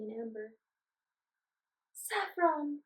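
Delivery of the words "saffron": shouting. Acted. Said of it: "Ruby shouted".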